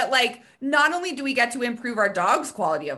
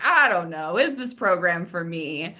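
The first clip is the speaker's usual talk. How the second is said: lower-pitched, hesitant acted quote; on the fence; 7 semitones lower than usual. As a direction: voice someone unsure about signing up. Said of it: "the fence, like".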